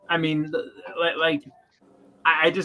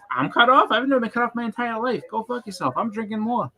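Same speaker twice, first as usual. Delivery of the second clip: mock outrage; 6 semitones higher than usual. Flair refused more drinks.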